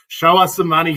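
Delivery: mock hype shout. Hyping a player's big payday.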